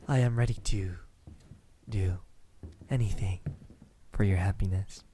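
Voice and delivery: whispered vow; devoted whispered promise. Acted. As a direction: breathe the promise into their ear. Lover's intimate promise.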